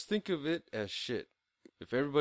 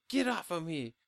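higher-pitched mock protest; imitated woman's protest; 5 semitones higher than usual. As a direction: act out pushing someone off, pitch raised. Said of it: "It was more her just like".

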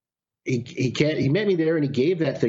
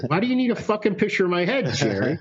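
fast, pitched-up mock outrage; exasperated retort; 4 semitones higher, faster than usual. Retelling to a podcast host, rattling off exasperated disbelief at his friend. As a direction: tell Jerry off in a rush, half joking.

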